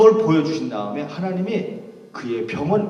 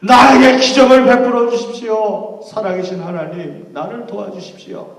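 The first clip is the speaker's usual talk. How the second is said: pleading, peaking louder and higher then fading; earnest prayer; 4 semitones higher, 5 dB louder than usual. Acted. Paul begging God for a miracle, pleading. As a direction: cry out for a miracle, then sink back. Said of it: "간절히 기도했는데".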